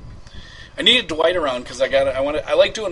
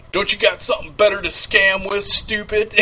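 mocking heckler; 5 semitones higher, 4 dB louder than usual. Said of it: "people saying".

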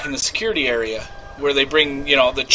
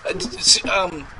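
flustered; 3 dB louder than usual. Acted. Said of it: "I will play me".

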